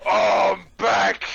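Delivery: loud gleeful shout; triumphant shout. Acted. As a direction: burst back in cheering.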